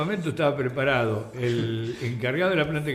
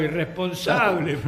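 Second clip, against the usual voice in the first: drawn-out mock shout, only slightly raised; retold yell from below; 3 semitones higher, slower than usual. Pilú calls up to the climbers from below, retold shout. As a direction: imitate a slow, stretched-out call from afar. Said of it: "nos gritaba".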